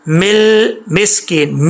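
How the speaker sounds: مل held on the lam, no echo; slow recitation demo. Shown as a demonstration. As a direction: sustain مل then مسکین. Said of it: "واپس لوٹنی نہیں چاہیے۔".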